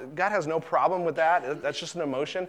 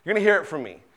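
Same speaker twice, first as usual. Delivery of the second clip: mock rage; 3 dB louder than usual. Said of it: "rage is the blow-up kind".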